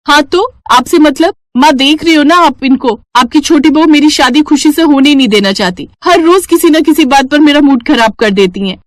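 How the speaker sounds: complain, offended; upset complaint. Acted. Bride complaining to her mother about the sister-in-law, aggrieved.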